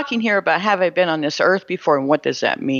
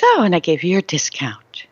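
whispered cashier. Retold or imitated. Cashier mentions the discount.

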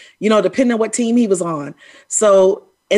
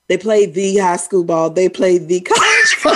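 mock country Texas accent; 3 dB louder than usual. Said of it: "You say "the".

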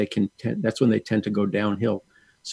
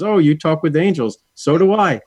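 raised, eager quoted voice; retold excitement; 5 semitones higher, 3 dB louder than usual. Robert reading her angel business card, mock excited discovery. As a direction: imitate a delighted discovery, building higher.

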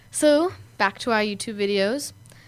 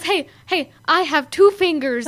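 put-on loopy kid; 4 semitones higher, 5 dB louder than usual. Quoting loopy David.

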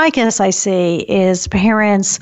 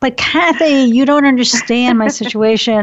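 imitating a frazzled parent; 3 semitones higher than usual. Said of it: "they'll say".

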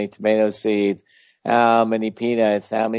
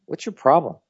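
higher, probing questions; urgent puzzled challenge, raised pitch; intense questioning; 4 semitones higher than usual. Shown as a demonstration. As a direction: press them with curious intensity, pitched up. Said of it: "you do that with people as well".

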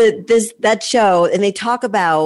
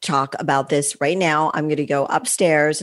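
calm and a little softer, unhurried; 2 semitones lower, 3 dB quieter than usual. Retold or imitated. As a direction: lead with love, keep it calm. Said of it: "And I say very calmly".

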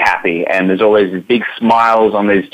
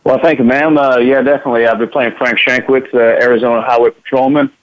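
higher Arizona highway patrolman drawl, lightly put on; Frank Shankwitz Arizona drawl; 3 semitones higher than usual. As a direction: play a folksy Arizona cop with a drawl. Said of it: "that's Frank's voice right there".

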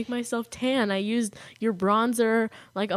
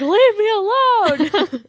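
higher, louder, slow sleepy grouch; mock grumpy snap; 11 semitones higher, 10 dB louder, much slower than usual. Teasing a friend about her sleepy outburst, mock grumpy. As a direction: play the cranky half-asleep friend. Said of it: "You're like".

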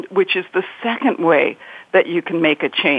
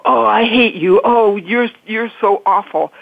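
raised, mock-venomous blaming; a touch of hammed-up spite; mock hateful rant; 3 semitones higher than usual. Shown as a demonstration. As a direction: act out lashing out at someone. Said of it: "you don't go".

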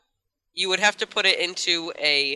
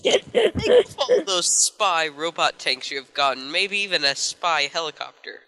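commercial guy; 3 semitones higher than usual. Acted. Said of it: "I sound like a commercial guy".

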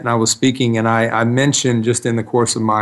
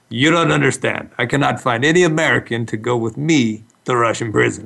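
Russian accent impression. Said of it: "I'm doing an impression of you".

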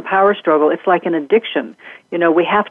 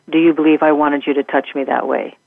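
retold calm question, coming down at the end; gentle non-defensive question; 2 semitones lower than usual. Daughter asks her supervisor about the touching, calm and gentle. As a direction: ask it evenly, without accusation. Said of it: "helped her daughter with the tone of voice and the attitude".

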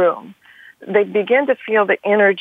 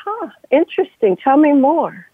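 musing interest; 5 semitones higher than usual. Shown as a demonstration. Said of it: "a finger to the chin going".

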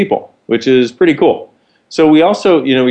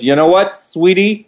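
higher, sassy sing-song comeback; pitched-up camp steward, savouring it; higher theatrical camp cabin-crew retort; camp flight attendant; 8 semitones higher than usual. Retold or imitated. Flight attendant's punchline setup.

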